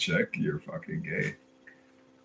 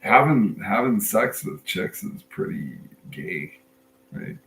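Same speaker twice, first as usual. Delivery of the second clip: deadpan. Retold or imitated. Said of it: "like, a deadpan voice".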